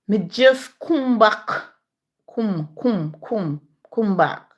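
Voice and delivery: mock a Clarendon lady repeating come back in her accent; imitating Clarendon accent. Friend mimics a Clarendon lady's speech to a friend, mock Clarendon accent. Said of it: "I heard a lady from Clarendon said".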